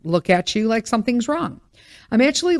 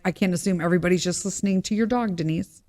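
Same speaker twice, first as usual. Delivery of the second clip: self-scolding; 5 dB quieter, faster than usual. Pretend. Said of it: "check myself and be like".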